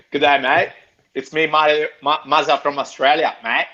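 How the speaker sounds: hearty amateur Aussie greeting; put-on Australian accent with a rising finish; attempted Australian accent. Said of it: "I'll try again".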